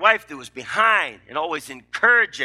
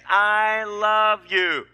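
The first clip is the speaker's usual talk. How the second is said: "I love you" said very slowly, "love" stretched; slow, weighty "I love you"; drawn out; 4 semitones higher, much slower than usual. Shown as a demonstration. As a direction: linger on each word of "I love you". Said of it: "you need to learn to say".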